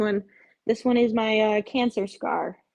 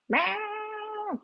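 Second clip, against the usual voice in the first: mock meow voice; 13 semitones higher, 5 dB quieter than usual. Imitating cats' meowing.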